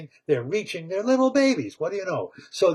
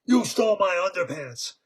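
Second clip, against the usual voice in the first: indignant shout; 3 semitones higher than usual. Acted. Bear confronting underpants thief.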